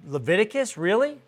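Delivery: doubting rise on really; a mild hint of disbelief, really? lifted up; incredulous question. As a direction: skeptical Leviticus, really? rising at the end. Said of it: "some of you are probably already saying".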